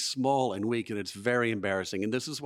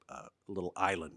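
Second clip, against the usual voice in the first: ordinary talk, nothing marked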